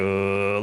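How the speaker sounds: drawn-out low-key car hum; imitated vibrating noise. Driver mimicking the car at speed, vibrating hum. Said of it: "vibrating low key".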